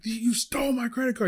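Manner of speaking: high-pitched imitation of an angry accuser; mock yelling. Angry customer accusing the server of stealing his card, mock yelling. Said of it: "He's, like, yelling".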